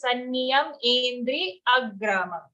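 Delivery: "endri agramam" with no y at the start of either word; dropped y sounds. Shown as a demonstration. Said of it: "Sometimes what happens?".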